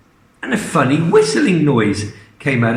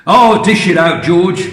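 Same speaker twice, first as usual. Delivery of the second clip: louder, higher, keen urging; eager cry; 3 semitones higher, 5 dB louder than usual. Acted. Mister Cranky urging George to dose the hen, eager cry. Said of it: "cried Mister Cranky".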